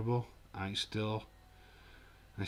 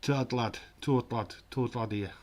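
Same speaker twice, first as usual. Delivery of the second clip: exaggerated local English dialect; regional English accent; 3 dB louder than usual. Shown as a demonstration. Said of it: "You're not getting any of that".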